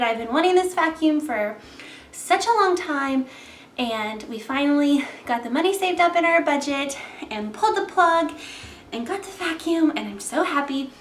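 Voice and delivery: panting between words after the stairs; out of breath. Real, not acted. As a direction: talk while catching your breath. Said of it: "sorry I'm out of breath".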